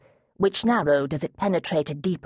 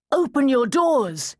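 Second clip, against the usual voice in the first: slow, higher and louder command; loud cry; 8 semitones higher, 4 dB louder than usual. Acted. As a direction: demand it of the hidden mountain men. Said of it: "he cried".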